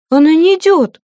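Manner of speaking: high, thin little squeak. A narrator's reading. Frightened page answers his mistress, thin squeak. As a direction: squeak it out like a scared boy. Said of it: "пискнул паж тоненьким голоском".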